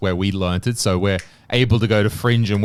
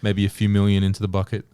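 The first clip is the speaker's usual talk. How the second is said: mock bucket pitch. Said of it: "Jüri Ratas ... with a bucket".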